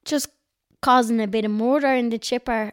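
broad North Dublin vowels, relaxed and casual; strong North Dublin accent. Real, not acted. Friend teasing her about her strong North Dublin accent. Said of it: "You said that in a very, very strong North Dublin accent".

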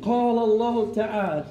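mock the preacher's pulpit voice; hammed-up khutbah delivery; Jumu'ah voice. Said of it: "They have the Jumu'ah voice".

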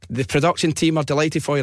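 lifted radio presenter voice; excited congratulations. Retold or imitated. Presenter congratulating Kenny on air, excited. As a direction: congratulate the winner like a DJ.

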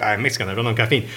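a hint of a Mexican accent on caffeine. Host quotes Mexican friend Carlos in a light Mexican accent. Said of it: "I'm not gonna do his accent anymore".

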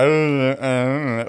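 imitated drunk, wordless mumbling; too drunk to talk. Drunk man fails to answer strangers, mock slurred noises. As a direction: slur helplessly, unable to form words. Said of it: "man kunde inte ens prata".

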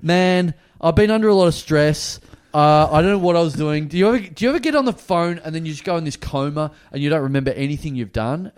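loud start, then rambling excuses; mock breakdown. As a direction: imitate a mild meltdown, over-explaining. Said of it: "start having, like, a breakdown".

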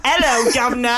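British greeting, barely put on; British accent. Shown as a demonstration. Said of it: "Fucking bloody hell".

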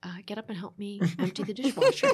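hushed, whispery show of calm; calm request, almost whispered for comic effect. Shown as a demonstration. Wife asks husband to empty the dishwasher, exaggeratedly calm. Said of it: "my calm voice".

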